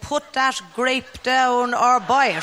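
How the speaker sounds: slow, stern market woman; deliberate scolding stallholder; slow stern market dealer. Retold or imitated.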